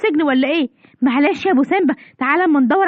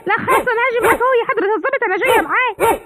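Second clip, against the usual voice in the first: higher, hurried frightened voice; a woman gives up in a hurry when she sees the guard dogs; scared giving in; 5 semitones higher than usual. Acted. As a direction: cave in fast out of fear.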